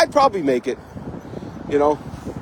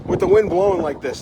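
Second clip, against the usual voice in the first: raised over wind; 4 semitones higher than usual. Real, not acted. Talking over strong wind.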